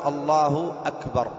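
slow "الله أكبر" with a distinct hamza on "أكبر"; "allaahu; separated hamza. Shown as a demonstration. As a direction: say "الله أكبر" carefully, restarting cleanly on "أكبر". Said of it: "أنت حاول أن تقول".

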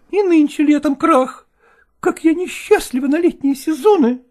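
high, lamenting woman's voice; actress voice. A narrator's reading. Actress Malkova telling Chechentsev of the crash, lamenting high. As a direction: wail it like a put-upon actress.

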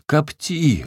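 loud, high joyful roar; a big booming holler of joy; bellow across the field. Acted. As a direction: shout it out with sudden glee. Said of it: "гаркнул он на всё поле".

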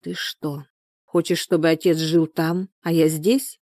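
usual speaking voice

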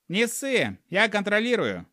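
high cheerful reassurance; laughing fire-eater. A narrator's reading. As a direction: laugh it off breezily. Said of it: "засмеялся".

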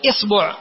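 إصبع said isbu', i then u; short i, then short u in إصبع; kasra, then u. Shown as a demonstration. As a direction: demonstrate إصبع as IS-BU'. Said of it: "ثم تأتي إلى الكسرة تقول".

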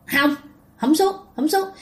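high, whiny refusal from a possessed woman; possessed wife in the tree refusing to come down; stubborn spirit. Retold or imitated. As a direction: dig in and refuse like a scared ghost.

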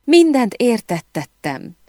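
high, distressed outcry, not full volume; narrator's high-pitched acted scream; mock shriek. A narrator's reading. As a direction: cry out like a woman pleading in a quarrel. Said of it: "sikoltott Emily".

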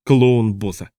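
happy shout of the clown's name; joyful cry. A narrator's reading. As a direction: call out gleefully. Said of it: "радостно воскликнул я".

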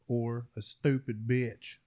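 slow, drawn-out Southern drawl on "stupid bitch"; a slow Southern drawl insult; Southern accent. Shown as a demonstration. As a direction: stretch it out like a good ol' Southern boy. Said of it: "from the South?".

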